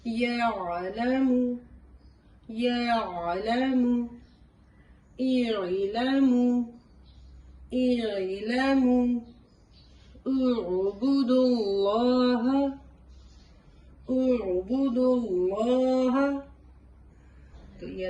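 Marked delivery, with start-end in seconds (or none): 0.1-9.2 یعلم and اعلم intoned very slowly and loudly, clear throaty ain; Quranic recitation. Shown as a demonstration. Teacher reciting Quranic words as a model. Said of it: "صحیح آ جائے گا". 10.2-16.4 اعبدوا اللہ intoned very slowly and loudly, ain pressed in the throat; Quranic recitation. Shown as a demonstration. Teacher reciting اعبدوا اللہ for students. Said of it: "صحیح آ جائے گا".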